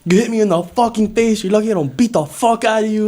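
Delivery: worked-up mock outrage; retold angry threat. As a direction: imitate a teacher losing his temper. Acts out furious teacher's threat.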